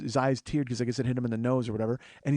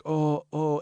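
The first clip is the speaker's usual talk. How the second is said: imitated moaning. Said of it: "he's laying there moaning".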